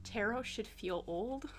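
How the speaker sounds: slow, quiet sarcastic voice; dry sarcasm. Pretend. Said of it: "she says with sarcasm".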